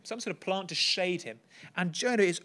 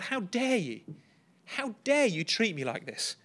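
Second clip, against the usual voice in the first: higher, outraged «dare»; indignant Jonah; 5 semitones higher than usual. Retold or imitated. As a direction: voice Jonah's wounded outrage at God. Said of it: "He is furious".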